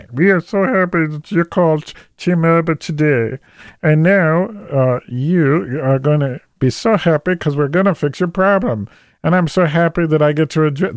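high, gushing fake cheer; hammed-up customer service delight; overexcited call-center agent. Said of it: "pretend they're genuinely excited for you".

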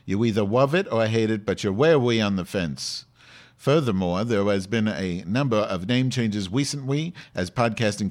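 stilted headline read, "recently" said like "weecently"; put-on speech impediment. Host reading podcast news to listeners, in a put-on speech impediment. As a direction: read news copy with r and l softened toward w. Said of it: "it's hard to weed like that".

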